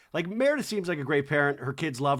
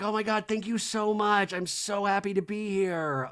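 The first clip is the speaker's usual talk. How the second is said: raised-pitch put-on gratitude; mock gushing; 5 semitones higher than usual. Guest thanking the host, higher mock gushing. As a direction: imitate an overjoyed show guest.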